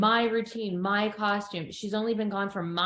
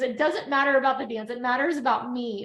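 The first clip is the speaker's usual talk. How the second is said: mock upset girl; 3 semitones higher, faster than usual. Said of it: "And she goes".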